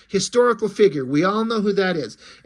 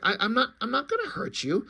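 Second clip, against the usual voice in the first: soft reassurance; 5 semitones higher, 5 dB quieter than usual. Acted. Hero reassures frightened family.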